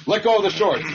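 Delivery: high, loud mocking squeal; mock the fighter pleading to keep the grip; mock whiny fighter.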